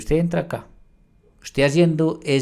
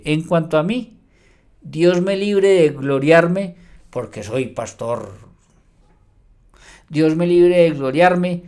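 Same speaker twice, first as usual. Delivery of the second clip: slow, louder hammed-up voice of a proud preacher; mock boastful pastor; 3 semitones higher, 3 dB louder, slower than usual. Preacher mocking a tithe-collecting pastor, in slow hammed-up boasting. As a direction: lightly parody a self-glorifying pastor.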